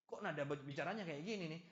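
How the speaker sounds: acted miffed reaction to a text; mock indignation. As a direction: question it as if mildly offended. Acted reader upset by a message.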